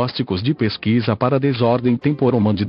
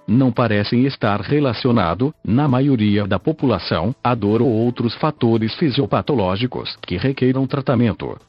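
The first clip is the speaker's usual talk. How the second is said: robotic synthesized text-to-speech voice. Real, not acted. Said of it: "falo através desta voz sintetizada". (voz sintetizada de computador antiga)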